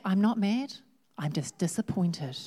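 mock parental disappointment, sinking on "disappointed". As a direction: play a mildly let-down parent. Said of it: "As a parent?".

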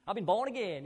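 lightly mimicked American born-again accent. Preacher mimicking the born-again cliche in a light American accent. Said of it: "I used an American accent with that".

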